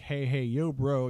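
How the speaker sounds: lightly voiced frat bro greeting; casual mock bro call; college bro. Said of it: "a bro from a college".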